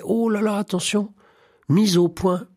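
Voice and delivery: high-pitched, hurried objection in another's voice; imitating an urgent little interjection; acted quick protest. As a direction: jump in high to correct a misunderstanding. Acts out little Thérèse objecting.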